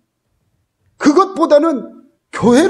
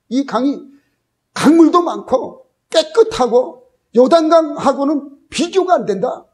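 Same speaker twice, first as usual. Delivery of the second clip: retold complaint; 4 semitones higher than usual. Naaman grumbling about the Jordan to his men, retold complaint. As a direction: imitate Naaman grumbling, higher-pitched and emphatic. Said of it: "막 불평을 해요".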